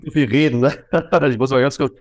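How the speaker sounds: stuffy, nasal voice. Real, not acted. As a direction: speak with a blocked nose. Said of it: "nicht, dass ich hier so nasal klinge".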